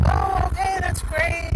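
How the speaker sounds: mock-chirpy and high; pleased cleaner's reply. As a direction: imitate a delighted caller saying yes.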